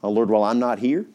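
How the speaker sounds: a pastor praying for his flock; closing prayer. Real, not acted.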